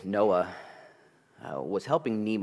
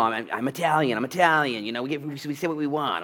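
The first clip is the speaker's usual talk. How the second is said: mock excuse; 6 semitones higher, 5 dB louder than usual. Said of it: "repentance isn't excuse making".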